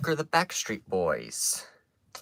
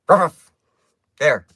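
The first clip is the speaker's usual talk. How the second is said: "Rough, rough" blurted out loud and high; triumphant proof; 3 semitones higher, 8 dB louder than usual. Shown as a demonstration.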